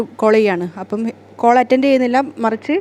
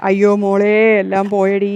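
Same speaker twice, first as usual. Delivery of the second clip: louder grieving cry; loud lament; 3 dB louder than usual. Acted. Mother lamenting to her daughter, loud wail. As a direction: wail that all is lost.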